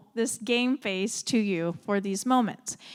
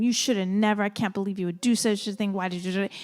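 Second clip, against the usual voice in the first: parent going off; 2 semitones lower, 3 dB louder, faster than usual. Retold or imitated. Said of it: "you just go off on them".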